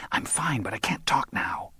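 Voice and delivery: urgent phone whisper. Acted. Mary whispers to Moran over the phone, hushed. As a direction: hush it so no one upstairs hears. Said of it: "Her voice came as a whisper now".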